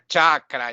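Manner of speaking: chakra stressed on the first a; front-stressed chakra; wrong pronunciation. Shown as a demonstration. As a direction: say chakra as CHAK-ra. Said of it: "Sanskrit is pronounced horribly".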